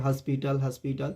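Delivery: हॉस्पिटल as "haspital", open "a"; habitual mispronunciation. Retold or imitated. Teacher imitates what we always say, हॉस्पिटल with "a". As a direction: say हॉस्पिटल starting "has". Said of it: "हमेशा बोलते रहते हैं".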